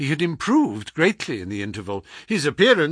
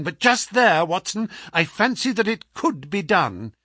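higher, lucid voice, working out a plan; sick but crisp detective, scheming; 6 semitones higher than usual. Acted. Sick detective talks his friend into hiding, crisply. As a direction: think it through briskly from the sickbed.

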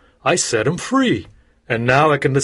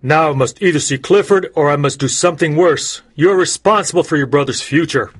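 fast, louder ultimatum; forceful threatening judge; angry judge; 3 semitones higher, 4 dB louder, faster than usual. Acted. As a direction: press the ultimatum.

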